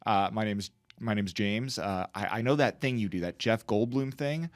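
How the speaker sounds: lightly voiced deferential director; director approaching a star. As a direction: play a director quietly making a polite request. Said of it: "the director went to Jeff Goldblum and was like".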